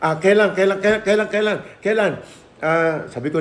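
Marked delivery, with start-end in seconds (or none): 0.0-2.1 high, stammering excited wife. Retold or imitated. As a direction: squeal it like she could jump for joy. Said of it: "Sabi niya". (tuwang-tuwang asawa, mataas at nauutal)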